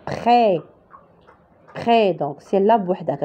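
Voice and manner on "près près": "Près" ending on an open è, no S; silent S. Shown as a demonstration. Teacher showing "Près" without its S, open vowel. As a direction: say "Près" and leave the final S silent. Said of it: "on va pas prononcer S".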